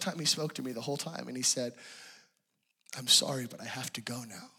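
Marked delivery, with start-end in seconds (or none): 3.0-4.5 whispered, lower, soft goodbye. Retold or imitated. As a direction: breathe it out like a sad farewell. Jesus voiced saying goodbye.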